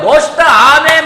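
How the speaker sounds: high, loud congregational cheers; imitated excited cheering. Church members cheering the praise singers, excited shout. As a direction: shout praise like an eager audience.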